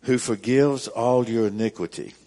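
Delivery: verse read out loud and full; firm scripture reading. Acted. Pastor reading verse three to his congregation, firm and loud. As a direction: announce the verse to the room.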